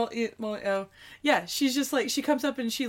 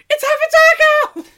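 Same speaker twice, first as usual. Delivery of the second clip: high, loud, thrilled exclamation; excited shout; 12 dB louder than usual. Retold or imitated. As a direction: blurt it out like a gleeful discovery. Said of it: "I'm like".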